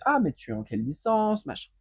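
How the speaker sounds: sweetly asking a classmate's course; chirpy friendly question. Retold or imitated. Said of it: "je vais être là en mode".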